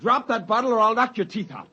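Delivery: mean every word; angry threat. Acted. Threatening Biggs.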